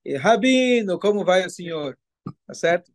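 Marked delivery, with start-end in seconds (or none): 0.2-2.0 a hint of a chatty congregant, lightly voiced, first word higher; cheerful greeting. Rabbi imitating a latecomer greeting him in synagogue, mild mock cheer. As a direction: lightly imitate a latecomer calling a friendly hello.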